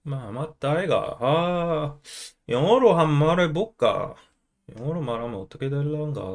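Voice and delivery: Korean in a Busan dialect; Busan accent. Acted. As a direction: put on a Busan accent, thinking aloud. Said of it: "Use the Busan accent?".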